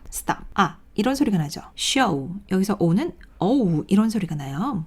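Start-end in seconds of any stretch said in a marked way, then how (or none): 0.1-0.8 "Stop" with a short 아 vowel, then 아 alone; short vowel demo. Shown as a demonstration. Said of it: "단모음은 짧게 소리나는 모음". 3.4-3.8 어우 drawn out as a long vowel; teacher demonstrating a long, gliding 어우; long vowel demo. Shown as a demonstration. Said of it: "어우 이렇게 길게 소리 나는".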